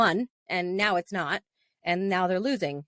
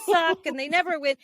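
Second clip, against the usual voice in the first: high, complaining imitation of husband; husband mimicked raging about Toronto teams; mock upset rant; 8 semitones higher than usual. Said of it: "going crazy because he's so upset".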